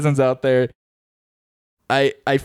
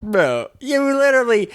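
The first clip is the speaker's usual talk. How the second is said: exasperated; 10 semitones higher than usual. Real, not acted. Protests being interrupted.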